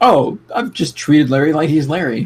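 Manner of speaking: plain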